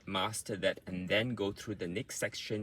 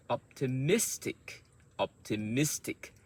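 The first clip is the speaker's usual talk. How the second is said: Optimistic repeated with MIS punched; word stress demo; 3 semitones higher than usual. Shown as a demonstration. Teacher drills Optimistic for learners, stressed on MIS. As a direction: stress the third syllable of Optimistic. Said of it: "those sounds are the strong sounds".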